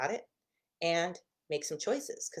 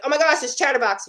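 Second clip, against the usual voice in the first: louder, higher, fed-up groan of a line; rolling your eyes at your own mind; hammed-up exasperated complaint; mock exasperation; 7 semitones higher, 11 dB louder than usual. Complaining about one's own mind.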